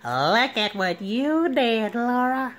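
fussy Urkel complaint to Laura; Steve Urkel. Retold or imitated. Urkel scolding Laura, lightly nasal whine. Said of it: "It's my favorite line".

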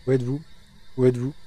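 loud call into the dark house. Real, not acted. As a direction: shout it out to find the ghost. Calling out to the ghost.

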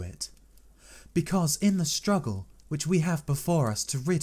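a hint of a heartfelt young woman pleading to help; Mina, lightly voiced.

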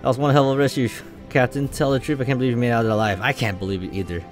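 lightly acted crew dialogue; light dramatic read of captain and crew; game dialogue read aloud.

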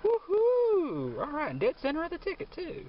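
high, loud, thrilled yelps; excited. Real, not acted. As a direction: burst out with winning joy. Finding a winning symbol.

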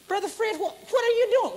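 a touch of surprise; Billy Joe. Retold or imitated. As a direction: friend calling out on the road.

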